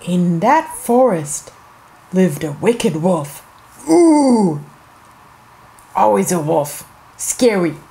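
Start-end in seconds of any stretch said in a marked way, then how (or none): 3.9-4.6 long, drawn-out spooky "ooh". Acted. Storyteller after naming the wicked wolf, spooky ooh. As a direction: let out a playful scary ooh.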